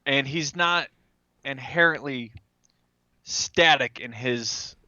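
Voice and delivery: normal talking voice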